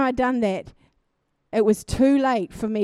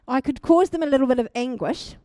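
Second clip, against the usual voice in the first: laughing; 4 dB louder than usual. Real, not acted. Retelling with a laugh.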